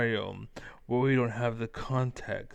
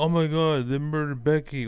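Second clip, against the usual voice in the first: mock outrage; 3 semitones higher, 4 dB louder, faster than usual. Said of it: "You're like".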